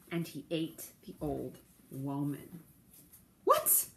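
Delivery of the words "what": very high, sharp "What?"; a stunned gasp of a question; shocked. Real, not acted. Teller's shock at the story.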